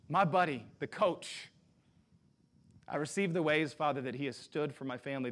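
heartfelt spoken prayer. Acted. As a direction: pray for him in front of the church. Leads prayer over Billy.

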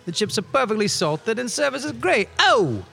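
mock reviewer. Reading review in put-on voice.

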